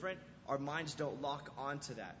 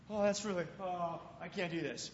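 put-on scared kid. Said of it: "Starts freaking out".

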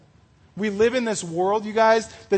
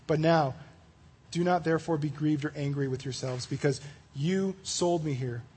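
scripture reading; 2 semitones lower than usual. Acted. Reads Genesis 45 aloud.

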